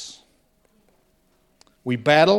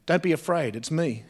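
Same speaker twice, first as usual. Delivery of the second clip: softer, gentle voice of Jesus; calm reassurance; 5 dB quieter than usual. Retold or imitated. Jesus calming his terrified disciples, soft and reassuring. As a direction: quietly settle frightened men. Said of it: "Jesus calmed them and assured them".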